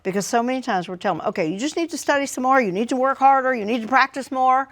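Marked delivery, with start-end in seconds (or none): 1.3-4.7 lecturing parent. Retold or imitated.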